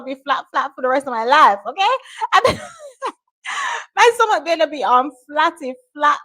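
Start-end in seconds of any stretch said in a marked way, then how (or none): none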